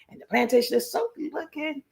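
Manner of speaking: high-pitched mock country accent; imitated country accent. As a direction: lightly put on a country man's accent. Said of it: "he country accent too".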